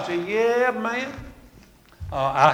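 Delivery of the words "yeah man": acted-out high, drawn-out answer; high-pitched reply. Answering Brother Bill about his knee, high-pitched reply. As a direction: answer your friend up high, stretching it. Retelling own reply to friend.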